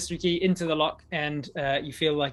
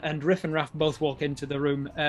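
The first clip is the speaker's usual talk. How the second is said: normal talking voice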